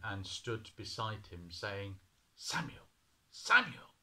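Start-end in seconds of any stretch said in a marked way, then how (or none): 2.4-2.9 whispered call. A narrator's reading. God calling in night. 3.3-4.0 much higher, louder calling of the name; a voice ringing out the name. A narrator's reading. God calling loudly.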